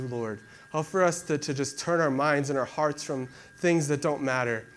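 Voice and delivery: steady, heartfelt prayer voice; earnest prayer. Acted. Pastor leading the church in closing prayer, earnest. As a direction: pray over the congregation with sincerity.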